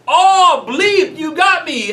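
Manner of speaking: high, loud mock yell of a group clown; imitated yelling. Group clown joking with friends near silent prayer, yelling. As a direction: holler the bleeped swearing like a rowdy joker. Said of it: "literally yelling this at the top of his lungs".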